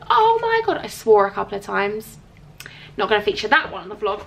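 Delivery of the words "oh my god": high-pitched imitation of her own delight; retold excited reaction. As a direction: re-enact a thrilled gasp of words, pitched way up. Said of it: "You should have heard my reactions".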